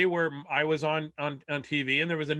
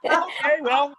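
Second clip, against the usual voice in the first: mock resignation; 11 semitones higher, 5 dB louder than usual. Retold dad gives in, high voice.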